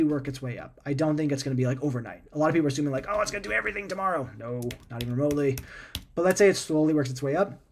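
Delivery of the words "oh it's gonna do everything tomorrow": high, quick imitation of overeager believers; mock naive hype. Imitating people who assume AI takes over overnight, mock naive. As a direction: rattle it off high and light, mimicking the hype.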